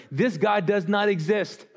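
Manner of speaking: a laugh breaks into the scoffing crowd's words; laughing through the quote. Retold or imitated. Preacher quotes doubting crowd, laughing. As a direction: chuckle while quoting the doubters.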